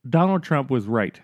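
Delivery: usual speaking voice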